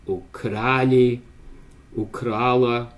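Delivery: ukrali, ukrala read slowly as language examples; careful Russian example words. Shown as a demonstration. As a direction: spell out ukrali and ukrala like a teacher. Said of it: "as the stress of the participle".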